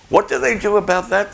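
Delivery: retold question. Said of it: "they said".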